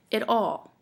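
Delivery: light "it", then "all" weighted; demonstrating an iamb, weight on "all"; iamb, stress on ALL. Shown as a demonstration. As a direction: lean on "all" after a short "it". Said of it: "that's five iambs".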